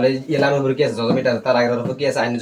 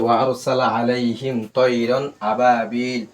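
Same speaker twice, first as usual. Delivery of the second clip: drawn-out, very slow tajweed chant; teacher modelling the verse slowly; slow Quran recitation; much slower than usual. Shown as a demonstration. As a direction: stretch every vowel like a recitation.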